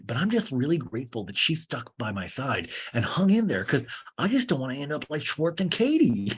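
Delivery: lightly mocked earnest reality star; Sandoval. Reality star confiding about his relationship, mock earnest. Plays Sandoval in a talking head.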